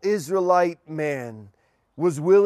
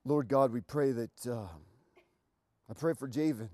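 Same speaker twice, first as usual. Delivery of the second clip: lower, softer prayer voice; 6 semitones lower, 4 dB quieter than usual. Acted. Pastor praying for the engaged couple, soft and low.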